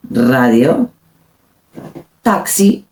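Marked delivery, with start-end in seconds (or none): 0.1-0.9 "Radio" opening on a rolled R; "Radio" low, with a strong Spanish R; strong initial R. Shown as a demonstration. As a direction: trill the first sound of "Radio". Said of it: "The R sounds strong".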